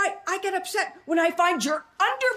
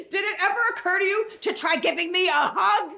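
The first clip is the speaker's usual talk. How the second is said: laughing shout; 4 semitones higher than usual. Acted. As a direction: yell it through laughter. Wife shouting for a hug.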